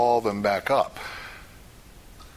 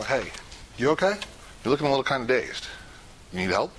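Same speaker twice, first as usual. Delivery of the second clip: casual gentle check-in; 3 semitones higher, faster than usual. Shown as a demonstration. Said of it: "Walk up to the person and go".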